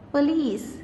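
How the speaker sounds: "police" with LICE stressed; light PO, weight on LICE in "police"; stress on second syllable. Shown as a demonstration. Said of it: "syllable is the stressed one".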